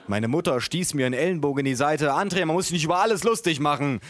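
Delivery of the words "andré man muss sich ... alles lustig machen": quick, higher-pitched reproach, lightly acted; scolding mother. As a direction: chide your son in a hurry. Mother scolds her son in story. (tadelnde Mutter, leicht gespielt)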